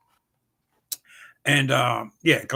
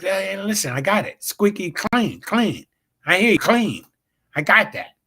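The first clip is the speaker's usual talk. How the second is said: exasperated; 6 semitones higher, 4 dB louder than usual. Retold or imitated. Exasperated reply to promoters' nagging.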